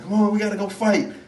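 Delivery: put-on rally the kid, playfully; urgent mama. Mama recruiting her little boy, mock urgent. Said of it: "his mama went up to him".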